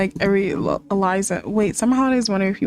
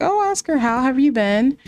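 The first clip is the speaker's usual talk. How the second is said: sweet greeting; 4 semitones higher than usual. Pretend. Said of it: "she's gonna be like".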